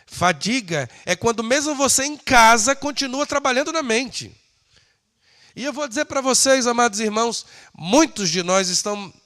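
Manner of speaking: high, insistent pulpit voice; emphatic preaching. Acted. Preacher telling the brothers what fatigue really is, emphatic. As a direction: press the point on the congregation.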